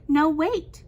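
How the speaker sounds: loud, quick-to-stop-her command; urgent interruption. A narrator's reading. Empress stops maidservant taking the cup, urgent.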